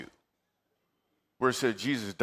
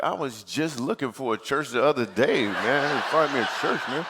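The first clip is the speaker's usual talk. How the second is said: eager, laughing. Retold or imitated. Eager reversal to beautiful woman.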